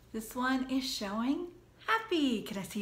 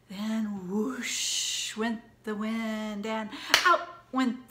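storytime recitation; 4 dB louder, slower than usual. Acted. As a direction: lively rhyme read to kids. Teacher reciting the pumpkin rhyme.

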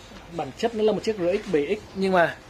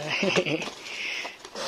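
soft, breathy chuckle; light chuckle; 7 dB quieter than usual. Real, not acted. Vlogger pleased with the helmets' quality, soft chuckle. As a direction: chuckle softly to yourself. Chuckles after praising the product.

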